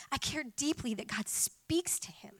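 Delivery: whispered sincerity. Real, not acted. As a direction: whisper it like a confession. Heartfelt aside.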